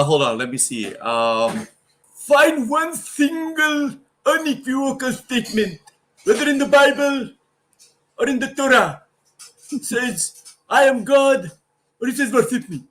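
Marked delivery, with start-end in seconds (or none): 2.1-12.8 much higher, louder preacher voice; hammed-up lecturing preacher; Zakir Naik impression. Doing a Zakir Naik voice for the host on request. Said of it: "Do your best Zakir Naik impression".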